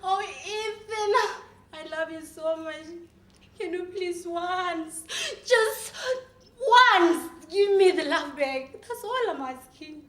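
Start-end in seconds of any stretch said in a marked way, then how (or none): 0.0-5.0 tearful pleading. Acted. Acted pleading with Ethan. 5.5-8.7 desperate pleading. Acted. Acted begging.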